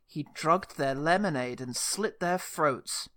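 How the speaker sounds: slow mock-ominous quote; lightly ominous narrator. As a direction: read it out slowly, with a touch of menace. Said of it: "it was delivered really ominously".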